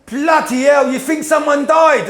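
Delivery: high, drawn-out incredulous outcry; mock exasperation. Wife scoffing at husband grieving over football, mock-exasperated. Wife scolding after seeing doorbell footage.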